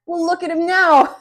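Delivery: mock her with a cackle. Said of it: "she cackles again".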